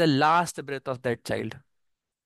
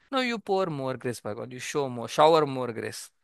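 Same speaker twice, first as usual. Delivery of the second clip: humble plea; 2 semitones lower than usual. Shown as a demonstration. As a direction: beg God gently for more grace. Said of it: "Like that".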